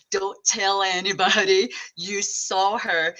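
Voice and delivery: slow, hushed warning from mom; mom's warning. Retold or imitated. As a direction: mom warning her daughter at the funeral, lightly voiced. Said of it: "my mom's like".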